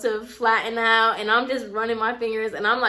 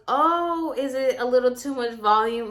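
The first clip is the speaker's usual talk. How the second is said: playing it off. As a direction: ask as if you have no idea. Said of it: "trying to play this off like I have no idea".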